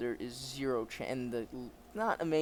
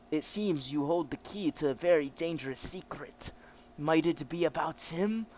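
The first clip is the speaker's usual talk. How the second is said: commanding officer with a put-on German accent; German officer character; 3 semitones higher, 4 dB louder than usual. German officer explains the prisoner's state, acted officer voice.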